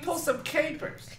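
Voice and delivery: high, soft, slow put-on voice; playful mock schemer. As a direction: propose mischief in a tiny drawn-out voice. Playing the invisible girl.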